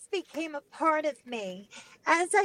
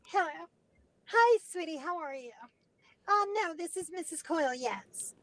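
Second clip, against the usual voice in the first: mom voice. Retold or imitated. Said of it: "I could talk like a girl".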